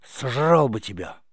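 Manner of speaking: slow, loud mock-monster shout; jump-scare your friend with a roar; a playful scare yelled into his ear. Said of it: "крикнул".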